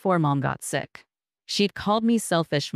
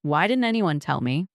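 sharp. Acted. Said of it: "Cheryl's voice sharpened".

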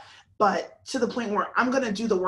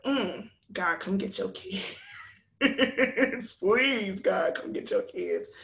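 laughing plea. Retold or imitated. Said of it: "I'm like".

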